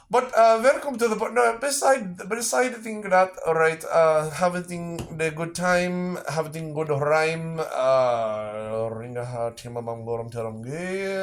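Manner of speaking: mock Indian accent. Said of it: "do the accent".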